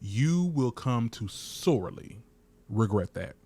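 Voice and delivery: slow, lightly voiced villain warning; a hint of a soap villain vowing revenge; mock ominous threat. Host hamming up a soap villain threat, slow and mock ominous. Dramatic threat after anchoring the show.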